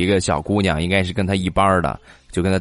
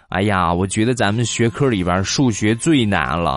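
put-on earnest little girl; 3 semitones higher than usual. Schoolgirl telling her friend how hard math is, earnest. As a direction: sound like a serious schoolgirl.

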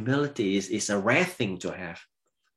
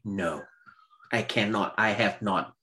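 humbled Job; 4 semitones lower, 5 dB quieter than usual. Acted. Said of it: "Job has to answer negatively".

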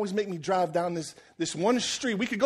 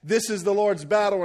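trash talk; 3 dB louder than usual. Acted. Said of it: "David comes out and talks some real trash".

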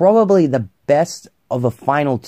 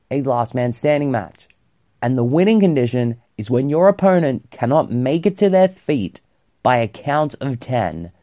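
talking around a lit cigarette; cigarette in mouth. Real, not acted. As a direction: speak with a cigarette between the lips. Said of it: "let me light my cigarette".

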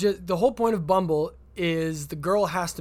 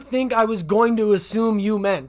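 mock exasperation; 5 dB louder than usual. Comedian retells his fed-up reply to the match. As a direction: throw it back at her, fed up.

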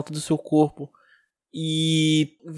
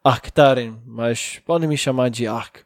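golem voice; 4 semitones lower than usual. Acted. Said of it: "Sou um golem".

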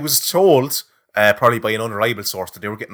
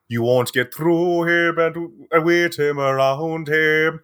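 mock Scottish priest; 4 semitones higher than usual. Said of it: "do it in a Scottish accent".

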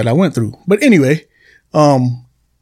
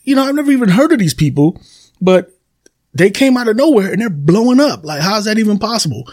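amazed; 7 semitones higher than usual. Retold or imitated. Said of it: "And you're like".

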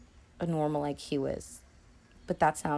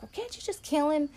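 higher, pleading mock whine; lightly voiced demanding wife; imitating Ginger; 10 semitones higher than usual. Ginger urging Nicky to kill Ace, higher mock plea. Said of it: "She's like".

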